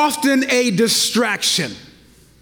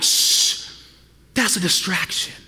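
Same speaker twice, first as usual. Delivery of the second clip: hushed, softer scolding shush; mock shushing; 6 semitones lower, 3 dB quieter than usual. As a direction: shush the baby like a fussy churchgoer. Worshippers shushing babies.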